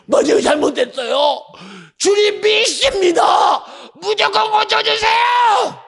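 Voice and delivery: father's high, slow, shouted plea; desperate cry. Acted. Repentant father begs Jesus with a slow, high shout. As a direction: cry out your faith, drawn out and high.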